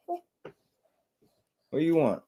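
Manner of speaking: very slow, high and soft. Real, not acted. Father softly cooing at his crying toddler. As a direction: coo it gently and drawn out. Baby talk to crying son.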